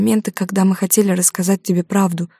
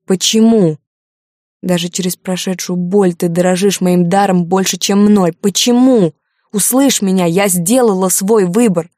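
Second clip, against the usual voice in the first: hysterical; 5 dB louder than usual. A narrator's reading. Daughter pleading hysterically with her mother, loud. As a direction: cry it out in despair.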